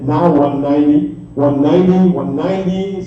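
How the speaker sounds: rolling rhythmic auction chant; auctioneer. Real, not acted. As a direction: rattle off the bids in a steady chant. Live auction bid calling.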